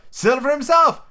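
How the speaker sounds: high, startled exclamation; cry of surprise. A narrator's reading. Lookout spotting Silver outside, surprised cry. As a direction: exclaim it well up in pitch. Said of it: "with a cry of surprise".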